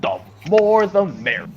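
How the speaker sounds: slow, drawn-out character quote; Stepney impression. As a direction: stretch it out like a storybook engine. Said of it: "And he says".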